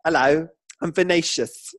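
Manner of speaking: a light camp lilt on Vinicius; a touch of camp flourish on Vinicius. Shown as a demonstration. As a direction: let the name go camp. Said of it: "your voice just naturally goes".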